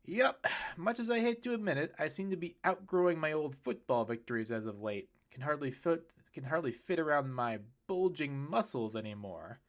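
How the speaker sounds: dad joking about his muscles; joking Kyle. Acted. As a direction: brag with a grin. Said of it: "Kyle smirked".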